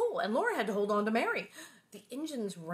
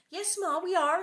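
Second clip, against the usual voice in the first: put-on much higher girl's answer; higher obedient daughter; eager child reply; 9 semitones higher, 7 dB louder than usual. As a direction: answer Ma quickly. Laura answering Ma.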